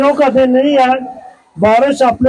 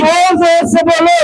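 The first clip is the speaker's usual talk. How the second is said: booming political rally speech; 4 semitones higher than usual. Real, not acted. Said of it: "मेरे नारों का जवाब देंगे".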